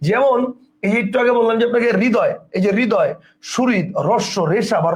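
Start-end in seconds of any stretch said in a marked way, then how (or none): 2.0-2.3 হৃদয় said as "ridoy"; silent initial h. Shown as a demonstration. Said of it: "তখন র এর উচ্চারণ মহাপ্রাণ হয়". 2.8-3.1 হৃদয় said as "ridoy"; silent initial h. Shown as a demonstration. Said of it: "তখন র এর উচ্চারণ মহাপ্রাণ হয়".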